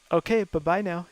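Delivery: lightly voiced okay, bye-bye now; a hint of the skit's sing-song bye-bye; David Spade catchphrase. Naming David Spade's skit, light catchphrase impression. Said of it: "David Spade did that one".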